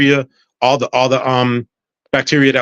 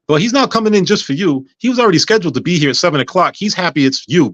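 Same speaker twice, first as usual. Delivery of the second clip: higher-pitched imitation of a firm nurse; retold telling-off; 6 semitones higher than usual. Head nurse corrects patient about the surgeon, mildly scolding. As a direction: put the patient straight, pitch raised.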